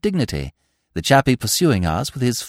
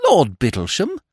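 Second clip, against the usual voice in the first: "Lord Bittlesham" asked with a light rising lilt; surprised echo. Acted. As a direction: toss "Lord Bittlesham" back as a question, rising at the end. Young man echoes, astonished.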